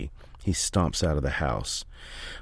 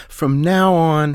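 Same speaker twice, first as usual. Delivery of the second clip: much higher, much louder, slow; angry shout; 10 semitones higher, 8 dB louder, slower than usual. Acted. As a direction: spit each word out in rage. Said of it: "Philly started panting with anger".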